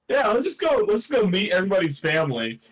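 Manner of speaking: eager suggestion. Acted. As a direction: pitch it up like a keen adventurer. Eager party planning a visit.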